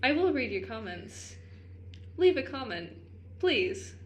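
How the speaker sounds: put-on old Hollywood announcer accent; crisp mid-century radio announcer; transatlantic accent. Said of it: "Maybe we'll put the transatlantic accent".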